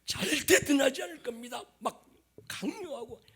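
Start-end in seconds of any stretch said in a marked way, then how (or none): 0.1-1.6 loud, emphatic acted pledge; insistent mock oath; forceful vow. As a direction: swear it forcefully. Acts out forced vow of loyalty.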